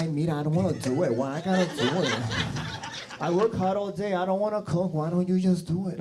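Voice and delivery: whiny Puerto Rican accent, imitating the wife; the wife complaining in a mild Puerto Rican accent. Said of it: "with the Puerto Rican accent".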